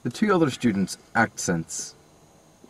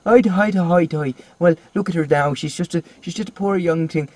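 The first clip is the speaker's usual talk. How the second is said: higher, lilting Irish impression; mock Irish accent; 4 semitones higher than usual. Imitating the film student's wandering accent, mock Irish. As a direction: put on a hammed-up Irish accent. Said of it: "He was like".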